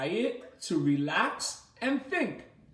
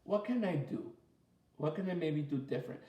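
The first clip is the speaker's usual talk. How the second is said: thoughtful self-talk; 4 semitones lower, 7 dB quieter, faster than usual. Retold or imitated. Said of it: "stop and say".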